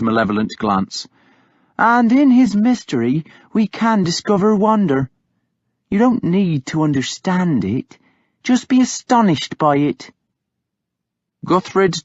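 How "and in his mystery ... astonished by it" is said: higher woman's voice, earnest about wonder; Hild, devout woman. A narrator's reading. Hild telling Guthred to marvel at God, higher earnest woman. Hild speaks of God's mystery.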